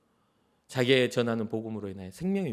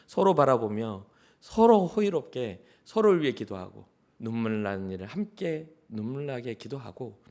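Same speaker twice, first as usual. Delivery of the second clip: usual speaking voice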